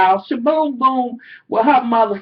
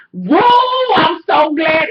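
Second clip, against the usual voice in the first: high, loud, hammed-up cheer; mock gushing clerk voice; 6 semitones higher, 5 dB louder, much slower than usual. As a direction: parody her fake delight. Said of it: "she gonna say".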